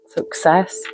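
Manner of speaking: a breathy whispered word, rising; whispered under the breath. Real, not acted. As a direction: murmur the card name to herself. Reading card name under breath.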